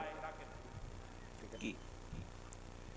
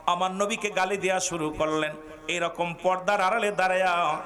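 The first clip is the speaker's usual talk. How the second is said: ordinary talk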